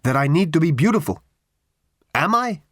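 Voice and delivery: high creature voice pressing hard; urgent creature. Acted. Creature urgently tells Ford its need, high and pressing. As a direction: urge it out, needy and high. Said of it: "said the creature urgently".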